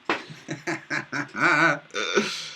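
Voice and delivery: chuckling run ending in a breath; amused laugh. Real, not acted. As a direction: laugh at someone's mistake. Amused at the commenter's mistake.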